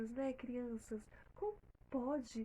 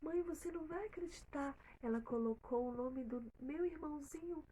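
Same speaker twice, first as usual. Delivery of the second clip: put-on excited girl; 6 semitones higher, 5 dB louder than usual. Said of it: "E ela falou".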